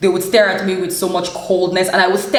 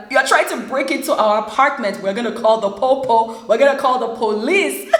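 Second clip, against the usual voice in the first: higher-pitched, hammed-up alarm; retold dramatic threat; 4 semitones higher than usual. Flatmate warning the man pushing the door, hammed-up threat. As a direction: imitate a flatmate raising the alarm, half laughing by the end.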